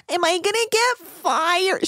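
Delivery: slow whiny mock plea; slow pleading imitation; mock whimper. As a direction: drag it out like a sorry stew. Mocking whiny stewardess.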